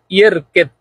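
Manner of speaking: ইয়ের কেদ with the middle sound neither a clear জ nor a clear দোয়াদ; careful Arabic pronunciation. Shown as a demonstration. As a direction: say ইয়ের কেদ, blurring the consonant between জ and দোয়াদ. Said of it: "এমনভাবে উচ্চারণ করবেন যাতে জাল বোঝা না যায়".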